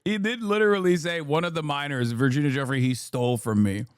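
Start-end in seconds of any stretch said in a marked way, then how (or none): none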